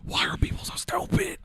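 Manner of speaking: strained high-pitched near-whisper; exasperated. Real, not acted. Host despairing at flat earthers, exasperated. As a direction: squeeze the question out high and voiceless in despair.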